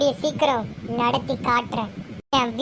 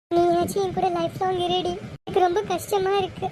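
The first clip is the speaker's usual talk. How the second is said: higher, tearful plea; 3 semitones higher than usual. Acted. Sister begs younger to stay lifelong, tearful. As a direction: beg for company as if near crying. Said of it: "அக்கா அழுகாத".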